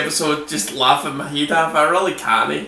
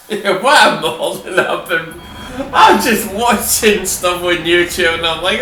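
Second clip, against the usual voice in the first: laughing. Real, not acted. Laughing at YouTube videos.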